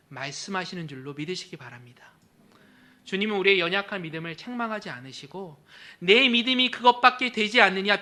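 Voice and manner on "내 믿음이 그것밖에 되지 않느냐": louder sneering question; mock scorn. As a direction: pretend to mock weak faith. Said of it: "비웃지 않으시고". (비웃는 듯 큰소리로 따지며)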